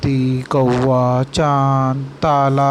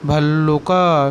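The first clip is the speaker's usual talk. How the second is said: भल्लुका slow, doubled l held; भल्लुका धीरे-धीरे; slow teaching word; slower than usual. Shown as a demonstration. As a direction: spell out भल्लुका slowly. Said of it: "क्या बोलते हैं?".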